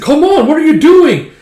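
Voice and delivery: very high, loud frantic yell; shrieking commander. Acted. Commander yelling at hesitant troops, very high shriek. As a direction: screech at the troops to attack.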